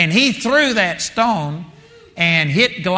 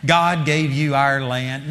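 mock apologetic; 3 semitones lower than usual. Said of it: "You can't go to Sihon and say".

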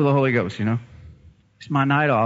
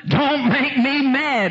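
high, slow, exaggerated mock growl; hammed-up gruff husband; 11 semitones higher, much slower than usual. Husband's retort retold, hammed-up and slow. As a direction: ham up the playful threat. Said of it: "he said".

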